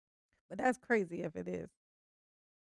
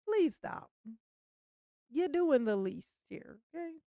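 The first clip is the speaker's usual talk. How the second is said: higher, pleading voice, mock-begging him to stop; pleading with Daryl; 4 semitones higher than usual. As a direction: beg him to cut it out, half joking. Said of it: "I'm like".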